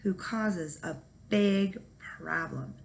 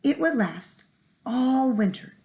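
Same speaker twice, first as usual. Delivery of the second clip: sly leprechaun; 5 semitones higher than usual. Acted. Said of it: "said the leprechaun".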